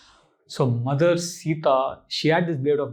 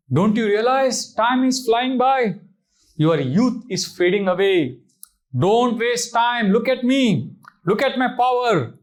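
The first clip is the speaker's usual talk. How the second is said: high, slow, pompous demon-king voice; Ravana wooing Sita; 6 semitones higher, 4 dB louder, slower than usual. Acted. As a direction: lord it over her with oily grandeur. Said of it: "Oh Sita".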